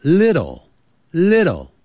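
LITTLE with a lightly flapped middle T; slow model "little", T softened almost to a D; standard pronunciation. Shown as a demonstration. Teacher corrects the mistake for beginners, standard pronunciation. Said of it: "不要念成little".

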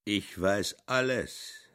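slow, weighty, every word pressed; slow and emphatic self-assurance; great emphasis. A narrator's reading. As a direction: say it with heavy insistence. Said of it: "sagt er mit großem Nachdruck".

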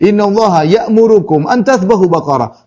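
firm weight on "Inna Allaha ya'murukum"; emphatic declaration. Shown as a demonstration. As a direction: press "ya'murukum" home as a command. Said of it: "dan itu ada penekanan".

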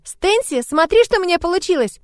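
put-on high, eager child voice; high-pitched girlish enthusiasm; excited little girl. A narrator's reading. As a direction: proudly call out like a delighted child. Child shows off her craft.

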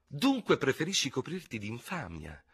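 high, menacing insult without shouting; hissed taunt. A narrator's reading. Ferraud provokes his reluctant opponent with dishonour, hissing. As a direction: needle him with the accusation, held back. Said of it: "sibilò il Guascone".

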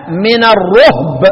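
الرهب as ar-ruhb, drawn out slowly; slow recited "ar-ruhb" for الرهب; damma on the ra. Shown as a demonstration. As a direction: say الرهب with u on ر and a silent ه. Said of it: "وضم الراء".

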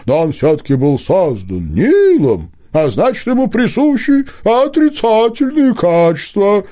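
high, hooting owl voice, slowing down; a fussy owl caught in the act; talking owl. A narrator's reading. Owl lectures about fox.

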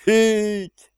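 high impressed whistling exclaim; impressed whistle. A narrator's reading. Steve whistles, impressed by the spy's rank. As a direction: let out a high amazed whistle. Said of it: "присвистнул Стив".

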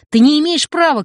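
put-on boy shouting at his mother. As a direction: shout the protest at her. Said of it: "крикнул он".

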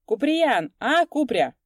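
loud call across the field. A narrator's reading. Coachman turns and shouts to Kupriyan. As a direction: shout back over the shoulder. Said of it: "крикнул".

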